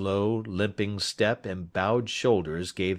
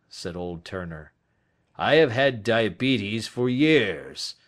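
put-on weary old Turner; 2 semitones higher, 5 dB louder than usual. Dying old man to detective, lightly voiced weariness. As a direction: plead your case with slight emphasis.

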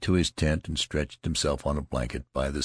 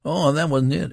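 boastful soldier voice; 11 semitones higher, 6 dB louder than usual. Acted. Loud soldier protesting.

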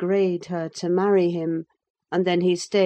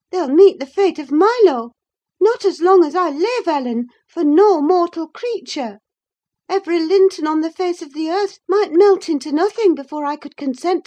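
higher, louder, heated defiance; passionate Catherine; 10 semitones higher, 6 dB louder than usual. Acted. Catherine arguing with Nelly about marrying Linton, heated. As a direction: argue hard, refusing to be parted from him.

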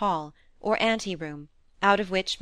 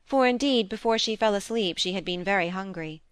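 ordinary delivery

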